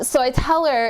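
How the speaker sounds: normal talking voice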